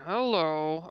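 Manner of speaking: drawn-out hello into the hands; face-palm mumble. Retold or imitated. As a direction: say it as if palming your face. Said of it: "I'm still palming my face going".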